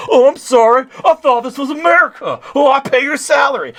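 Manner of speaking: high, loud cartoon protest; Randy Marsh. Cartoon dad protesting to the cop arresting him, high indignant impression. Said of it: "like Randy Marsh when he's being arrested".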